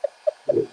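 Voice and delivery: breathy guilty giggle; a sheepish stifled laugh. Real, not acted. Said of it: "That's my guilty laugh".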